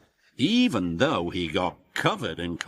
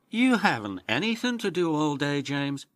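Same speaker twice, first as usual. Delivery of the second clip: wheezing Emily; 6 semitones higher, faster than usual. Acted. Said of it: "wheezed Emily".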